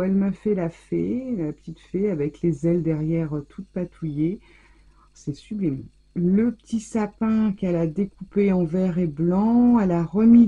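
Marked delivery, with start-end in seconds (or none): 5.1-5.8 whispered awe. Real, not acted. Admiring card under breath.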